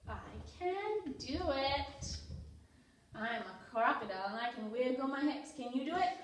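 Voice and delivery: lively picture-book read-aloud for toddlers; reading to children. Acted. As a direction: read it out to little kids with energy.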